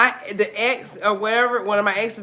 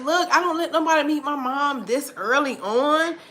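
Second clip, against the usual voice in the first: laughing quote; 7 semitones higher than usual. Retold or imitated. Retold own reply, laughing.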